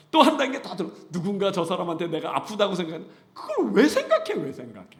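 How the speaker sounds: loud, high-pitched urging with laughter; preacher scolding overthinkers with a laugh; forceful preaching. Acted. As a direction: press the point hard from the pulpit.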